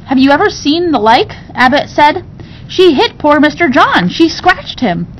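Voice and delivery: scandalized servant. Acted. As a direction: gasp out the tale of the crime.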